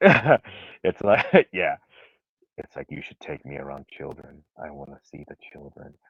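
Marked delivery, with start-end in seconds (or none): 2.6-5.9 sinister hush, very deep, very soft, creepy. Telling a story, acting out a character's reply in a creepy put-on voice. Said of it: "you do this really creepy voice".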